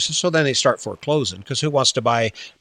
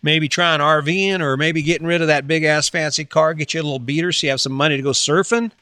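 casual suggesting dude; 2 semitones higher than usual. Retold or imitated. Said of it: "I come along and I say".

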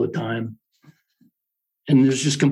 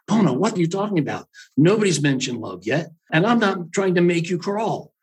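higher, fast, exasperated; exasperated protest; 6 semitones higher than usual. Retold or imitated. Pushing back at Bono over beers, exasperated and fast. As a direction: push back hard on his nonsense. Hand on table, confronting Bono.

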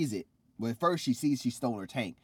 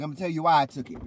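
louder, higher hammed-up threat; mock wrestling promo; 7 semitones higher, 10 dB louder, much faster than usual. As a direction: belt it out like a wrestling heel. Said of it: "She's like".

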